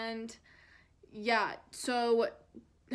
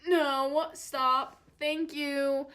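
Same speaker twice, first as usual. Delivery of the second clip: louder, raised mock objection; acted protest; 3 semitones higher, 5 dB louder, much slower than usual. Patient stopping people wiggling the IV, loud protest. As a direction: push it out like a firm refusal.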